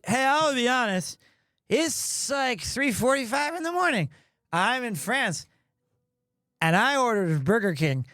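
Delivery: slightly slurred, tipsy phone voice; wasted. Retold or imitated. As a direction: own up as a drunk would. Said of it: "I am completely wasted".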